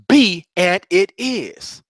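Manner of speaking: each word drawn out, slow and deliberate; slow, weighty mantra. Shown as a demonstration. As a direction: repeat it slowly like a mantra. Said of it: "you gotta say that a bunch of times".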